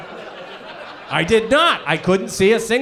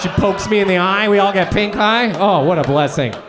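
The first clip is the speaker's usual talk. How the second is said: ordinary talk, nothing marked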